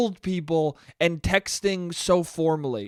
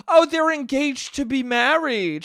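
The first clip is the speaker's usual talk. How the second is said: mock aunt; 9 semitones higher, 5 dB louder than usual. Mocking aunt's formal speech.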